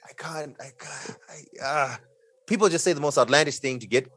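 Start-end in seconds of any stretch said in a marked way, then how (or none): 0.1-2.0 exasperated. Real, not acted. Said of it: "it's so annoying".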